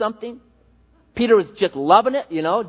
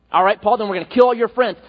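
louder, shouted threat of a persecutor; mock threat shout; 2 semitones higher, 4 dB louder than usual. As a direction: bark it like a tormentor making threats.

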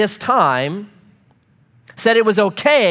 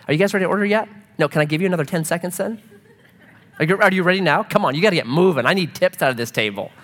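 impatient waiter; much faster than usual. Retold or imitated. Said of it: "Ever had a waiter be impatient".

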